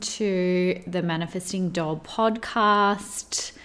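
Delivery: slow breathy whisper. Acted. Host teasing listeners with a whispered slow welcome.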